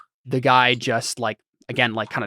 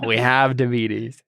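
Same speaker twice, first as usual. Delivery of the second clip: Arby's commercial; slower than usual. Retold or imitated. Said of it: "like an Arby's commercial".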